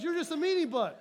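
a light touch of the wife's teasing; quoting wife. Retold or imitated. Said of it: "As my wife says".

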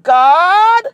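a high, loud cry of "God"; loud plea. Acted. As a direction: call up to heaven in desperation. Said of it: "affliction and said".

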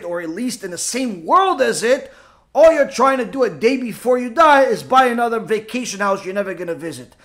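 usual speaking voice

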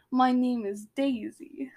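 slow, whispery attempt at Russian; badly faked Russian accent, drawn out. Shown as a demonstration. Giving a sample sentence, weak Russian accent. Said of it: "that's your Russian accent".

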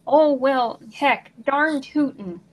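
slow, exaggerated folksy Northern accent. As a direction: draw out the Minnesota-style dialect. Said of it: "love the way that they speak".

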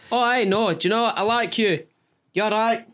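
put-on tipsy accent sliding into Mancunian; drunk impression. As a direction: imitate a mellow drunk. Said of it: "going Mancunian again".

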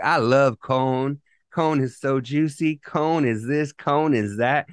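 CORN said as "cone", the R dropped; speech impediment, no R's. Retold or imitated. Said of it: "that little speech impediment where you can't say your R's".

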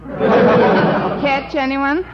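very slow, laughing through it; laughing joke. Acted. Miss Brooks joking to Mister Boynton, laughing slowly. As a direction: tease while chuckling.

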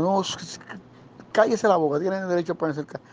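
mock police order, high and sharp; cop's commands. Retold cop silencing him.

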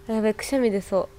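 about to sneeze, nose tickling; holding back a sneeze. Real, not acted. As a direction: sneeze coming on, words held back. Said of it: "やべ、くしゃみ出そう".

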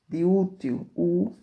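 "útil" loud on its first syllable, then "u" alone; teacher isolating loud "u"; stressed syllable demo. Shown as a demonstration. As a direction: punch the "u" of "útil". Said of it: "a sílaba tônica das palavras".

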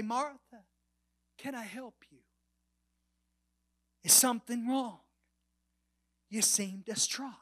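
softly asking after a friend; mild, soft-voiced concern; gentle concern. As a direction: ask quietly, with tender concern. Imagines Jesus gently checking on Martha.

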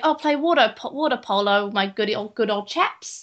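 hint of a posh British accent; mock posh British. Mocking a cartoon character's slight British accent, posh. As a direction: put on jolly posh British lightly. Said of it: "That's called the British accent".

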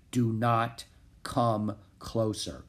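slow, solemn horse voice in the mind; stallion's inner voice. A narrator's reading. Horse warning Jack through thought, slow and distant. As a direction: speak each word slowly, distant and grave.

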